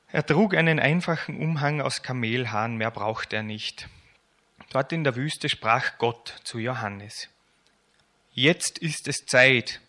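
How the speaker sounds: lebhaft erzählend vorgelesen, lauter als sein Gespräch; erzähl es wie für Kinder beim Vorlesen; Vorlesen aus der Kinderbibel. A narrator's reading. Reads children's Bible aloud. (lebendige Kinderbibel-Lesung)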